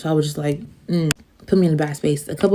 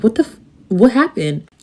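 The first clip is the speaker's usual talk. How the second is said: a friend's startled questions, pitched up and louder; alarmed friend; 5 semitones higher, 5 dB louder than usual. Retold or imitated. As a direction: sound alarmed on the phone.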